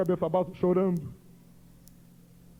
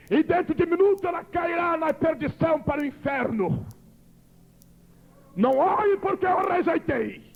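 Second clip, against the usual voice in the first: a lightly raised, solemn voice of God; God pronouncing judgement, slightly raised; 5 semitones higher than usual. Retold or imitated. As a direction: proclaim it as God passing judgement. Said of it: "Deus levantou alto e disse".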